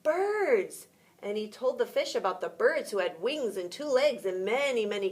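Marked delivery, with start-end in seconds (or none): 0.0-0.9 mysterious. A narrator's reading. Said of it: "said the frog mysteriously".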